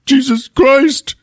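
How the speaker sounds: high, stretched-out outburst; exasperated mock yell. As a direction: burst out high, dragging the words. Javier snaps when touched.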